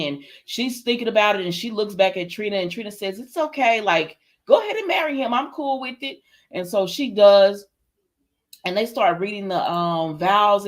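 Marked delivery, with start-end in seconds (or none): 3.2-6.2 higher-pitched, lightly acted go-ahead; retold reassurance. Trina tells Portia to go ahead and marry him, mock reassurance. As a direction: voice a friend giving her blessing. Voices Trina giving her blessing.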